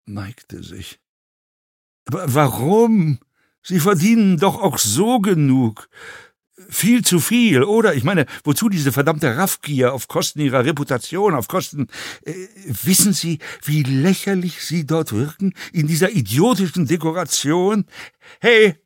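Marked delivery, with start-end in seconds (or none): 2.1-17.9 agitated, swooping indignation in a rising rant; indignant fellow passenger. A narrator's reading. Passenger scolds actor over his greed, indignant rant. 18.4-18.8 sharp, high, loud call. A narrator's reading. Actor hails the passing stewardess, calling out. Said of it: "rief Wagenbach".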